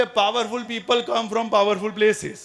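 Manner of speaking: very slow, weighty film-line delivery; slow dramatic quote from the film KGF; slow movie dialogue. Retold or imitated. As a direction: drag each word out like a hero's punchline. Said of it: "એમાં એક dialog આવે છે".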